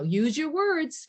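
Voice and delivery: mock preschool teacher dragging it out; drawn-out teacher nag. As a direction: stretch it out like a weary teacher. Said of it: "instead of saying".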